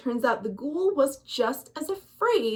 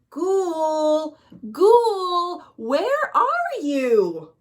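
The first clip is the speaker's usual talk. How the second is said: a mild call, the second ghoul louder and higher, then slowing; 4 semitones higher, 3 dB louder, much slower than usual. Acted. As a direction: call into the dark cave. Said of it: "started calling".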